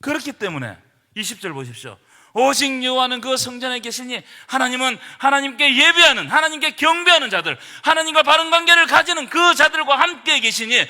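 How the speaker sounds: loud, driving sermon delivery; full-force preaching. Acted. Pastor driving home God's answer to the congregation, loud preaching.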